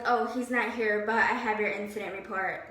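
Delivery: understated imitation of an indifferent boss; imitating the other boss. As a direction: lightly mimic her offhand delivery. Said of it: "Literally, that's how she said it".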